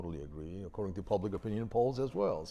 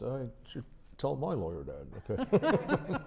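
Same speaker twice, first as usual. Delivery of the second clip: laughing; 4 semitones higher than usual. Real, not acted. Host jokes with a laugh.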